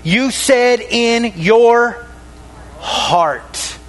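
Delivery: drawn out very slowly, word by word; slow down to land each word; slow emphatic repeat. Shown as a demonstration. Preacher pointing his church to the first words, slowly. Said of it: "What's the first words?".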